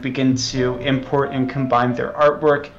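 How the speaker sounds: a lightly voiced, earnest game developer, slightly stiff. Sibling as developer giving a solemn interview, lightly acted. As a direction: play the sincere indie dev who takes it all very seriously.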